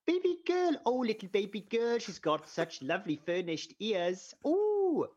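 put-on high cooing baby talk, swooping up; baby talk to the cat. Shown as a demonstration. To her cat, sweet high baby talk. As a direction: coo at the cat like it's a baby. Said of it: "we speak to the cat like, you know, like she's a baby".

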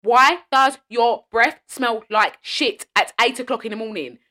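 slow, loud, exasperated demand; passionate rant. Real, not acted. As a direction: drag it out in outrage. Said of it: "I'm so passionate about this".

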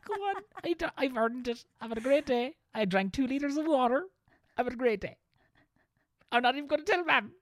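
very high, small pleading voice; childlike self-justifying voice. Acted. Driver justifying a secret treat to himself, childlike pleading. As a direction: plead your case like a kid.

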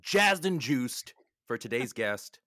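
smooth loud radio DJ hype. Acted. Radio DJ parody.

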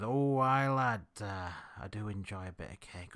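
fake Yorkshire accent. Dog walker talking cake with a stranger, mock Yorkshire accent. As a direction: imitate a Yorkshire local chatting. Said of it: "your fake Yorkshire accent".

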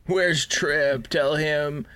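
mock radio static with words half-whispered through it; breaking-up transmission, played for laughs; crackly radio transmission. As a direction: imitate a broken-up comm call, slow and hushed. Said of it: "It sounds like this".

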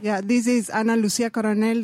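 speaking up for the mic. Real, not acted. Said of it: "Speak fr-, strong".

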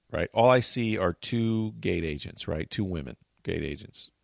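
normal talking voice

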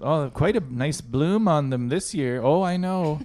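put-on high sweet old lady; chirpy grandma showing off. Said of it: "I like your old lady voice".

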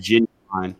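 "genuine" said JIN-you-wine; Southern mispronunciation. Shown as a demonstration. Telling how they thought it was pronounced, "genuine" as JIN-you-wine. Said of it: "I thought it was pronounced".

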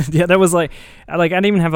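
laughing while talking. Real, not acted. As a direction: talk through laughter. Laughing at friend's joke.

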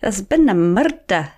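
slow mock Scottish detective accent; a quick Scottish Taggart line, slowly; playful Scottish accent impression. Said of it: "I was gonna do a Scottish accent".

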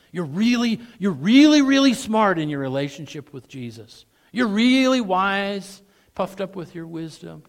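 high, loud mock flattery; sneering fake compliment; sarcastic. Shown as a demonstration. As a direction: stretch really mockingly. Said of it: "this comparison back and forth".

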